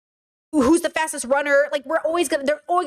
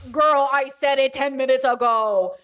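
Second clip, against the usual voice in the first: exasperated. Real, not acted. Exasperated reminder to commenter.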